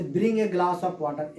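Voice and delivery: spoken slowly, word by word; slow example sentence. Shown as a demonstration. Teacher dictating an example order to students, slowly. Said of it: "एक sentence हमने बोल दिया कि example imperative sentence का".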